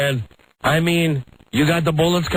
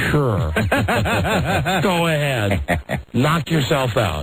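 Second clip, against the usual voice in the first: wry resigned; slower than usual. Retold or imitated. Resigned permission to son.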